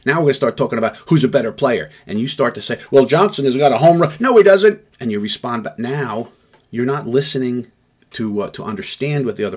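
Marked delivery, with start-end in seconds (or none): 2.9-4.1 arguing sports fan. Acted. Fan arguing about baseball. 4.2-4.8 loud, high shout of denial; a heated fan shouting his rival down; angry denial. Acted. Rival fan snaps back.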